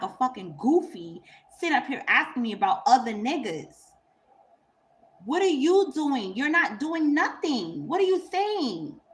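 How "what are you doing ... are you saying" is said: slow, high, incredulous questions; exasperated scolding. Real, not acted. Woman scolding a man for asking about other men, incredulous. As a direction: drag each question out in disbelief.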